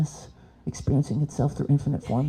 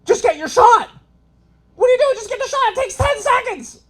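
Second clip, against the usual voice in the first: much higher mock bro; mocking the guy. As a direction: squeak it like a dismissive bro. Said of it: "he's like".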